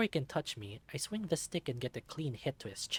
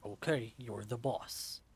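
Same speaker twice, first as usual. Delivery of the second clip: henchman voice; slower than usual. Acted. Henchman yielding.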